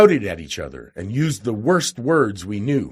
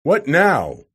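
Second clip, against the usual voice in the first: loud and higher, roaring; 5 semitones higher, 6 dB louder than usual. A narrator's reading. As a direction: demand it with a roar. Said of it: "he said in a roaring voice".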